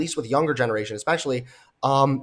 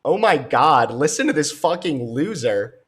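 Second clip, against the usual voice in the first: exasperated outburst; 4 dB louder than usual. Real, not acted. Reacting to clip in disbelief.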